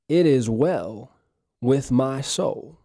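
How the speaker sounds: very slow, drawn out and calm; slow calm affirmation. Shown as a demonstration. Pastor leading listeners to repeat, slow and peaceful. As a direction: stretch every word peacefully. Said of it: "Say this with me".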